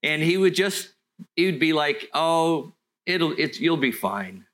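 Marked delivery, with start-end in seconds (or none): 2.1-4.5 lightly imitated Welsh pastor; Welsh accent. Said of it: "he had this Welsh thing going on".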